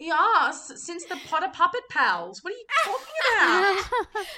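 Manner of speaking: high, loud mock outrage; retold indignant outburst, climbing in pitch and breaking into laughter; exasperated retort. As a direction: fire back in incredulous exasperation. Retold retort to clueless American.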